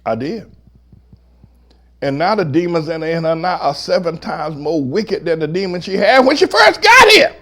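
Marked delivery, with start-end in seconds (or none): 2.0-7.4 preaching crescendo. Real, not acted. Pastor telling church of returning demons, preaching crescendo. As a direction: build steadily and shout the last words.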